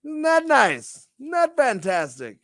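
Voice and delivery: high, slow, drawn-out hype; hyped announcer. Acted. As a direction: sell it like a showman. Hyped show host plug.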